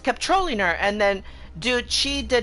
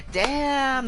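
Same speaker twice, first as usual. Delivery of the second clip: drawn-out, higher-pitched reaction; impressed friend's reaction; 5 semitones higher than usual. Retold or imitated. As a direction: stretch it out high as the friend hyping up a takedown. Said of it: "my friend Karma was like".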